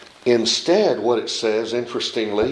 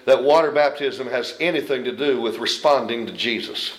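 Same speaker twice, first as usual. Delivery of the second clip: mock rebuke; 2 semitones lower than usual. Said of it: "Did Philip look at him and say".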